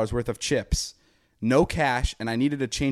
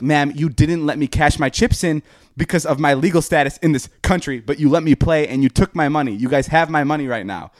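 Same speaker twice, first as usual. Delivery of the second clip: higher and louder indignant rant; angry douchey voice; 5 semitones higher, 5 dB louder than usual. Retold or imitated. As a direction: lay into her, furious and smug. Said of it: "talking like this, like a douche, because I was so angry".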